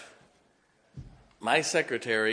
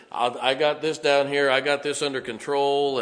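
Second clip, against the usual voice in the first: calling out; 3 semitones higher, 7 dB louder than usual. Retold or imitated. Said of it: "I'm trying to get practice".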